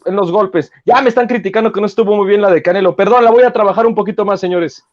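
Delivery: light Canelo voice, quick at the end; mild mimic of the champ in the ring; Canelo impression. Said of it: "Canelo impression".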